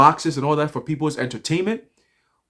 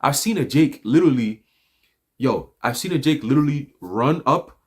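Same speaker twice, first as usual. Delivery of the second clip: ordinary talk, nothing marked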